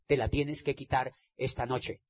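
soft, low opening of a building refrain; quiet exhortation. Acted. Preaching to the audience, starting quietly.

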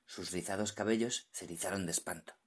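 usual speaking voice

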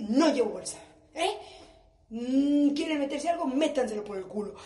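put-on loud fed-up snap at the kids; angry retort. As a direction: yell it back at them, fed up. What mom should snap back.

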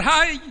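high, loud "ay"; imitated child's shout. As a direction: cry out like a child let loose. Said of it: "y gritar".

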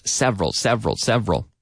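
SEVERAL repeated as SEV-rul; two-syllable pronunciation. Shown as a demonstration. Teacher drilling the word for learners, two syllables. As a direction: drill several without its middle vowel. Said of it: "talking about two-syllable words".

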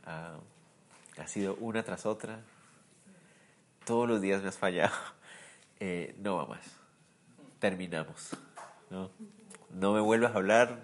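quiet, resigned voicing of the Lord ending it; hushed, weary breakup voice; the Lord breaking up. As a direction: let the words drop low and final, like a last goodbye. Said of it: "el Señor me diga así".

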